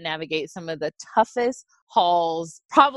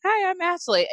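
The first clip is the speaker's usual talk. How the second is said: bright high greeting; 12 semitones higher than usual. Retold or imitated. Replying to little Laura.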